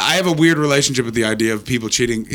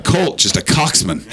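mock voiced audience member; slower than usual. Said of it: "You're like".

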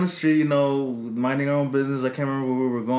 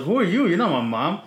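retold backtalk; 5 semitones higher than usual. Talking back to the lady.

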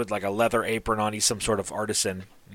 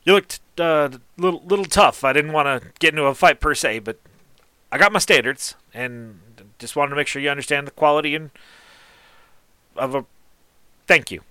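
higher, louder folksy tradesman; a gruff man warming up, voice raised; grateful artisan; 3 semitones higher, 3 dB louder than usual. Acted. Artisan thanking the stranger for his kindness, higher voice. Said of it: "and he goes".

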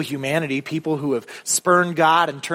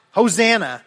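shout; 5 semitones higher, 3 dB louder than usual. Shown as a demonstration. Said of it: "They shout".

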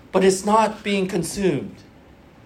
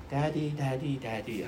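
imitating little daughter; 6 semitones lower, 12 dB quieter than usual. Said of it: "she started to call me daddy".

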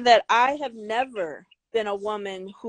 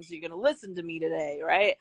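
dropped lower to be taken seriously; 5 semitones lower, 6 dB quieter than usual. Shown as a demonstration. Woman showing how she lowers her voice at work, lower voice. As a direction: drop the voice down low and firm. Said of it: "I have to put some bass in my voice".

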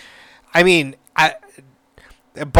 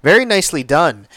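impressed ooh. Retold or imitated. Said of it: "I'm just like".

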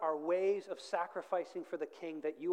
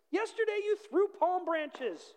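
high, loud, slow indignant cry; shouting; 13 semitones higher, 5 dB louder, slower than usual. A narrator's reading. Donkey reminding market crowd of yesterday, shouted high. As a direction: wail it out loud, drawn out, as a hammed-up complaint. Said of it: "he shouted".

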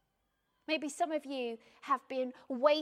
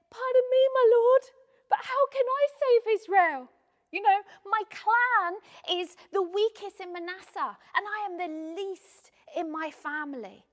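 much higher and much louder, croaking like a terrified farmer; croaky frightened Gideon; 8 semitones higher, 15 dB louder than usual. Acted. Preacher voicing scared Gideon to the Lord, high croaky plea. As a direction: pipe up in a panicky croak, knees knocking. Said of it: "in a really croaky voice".

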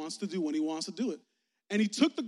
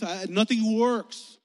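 desperate cry; 3 semitones higher, 8 dB louder, much slower than usual. Retold or imitated. Desperate woman's retold plea.

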